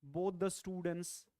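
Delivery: slow, deliberate example; slow model phrase. Shown as a demonstration. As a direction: read it slowly for students. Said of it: "we speak like this".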